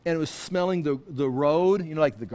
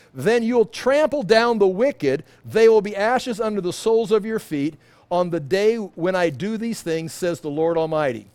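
scripture reading; 4 dB louder than usual. Acted. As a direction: read it out like holy writ. Rereads scripture.

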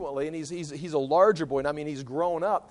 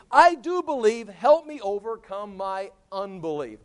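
earnest, raised-pitch outburst; exclaimed plea; 4 semitones higher than usual. Acted. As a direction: cry out as a father pleading for help. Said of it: "Immediately the boy's father exclaimed".

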